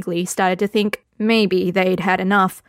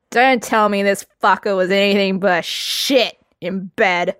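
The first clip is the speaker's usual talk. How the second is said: put-on drunk ranting Lambert. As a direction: hold forth like a sloppy drunk. Lambert drunkenly ranting about Foltest.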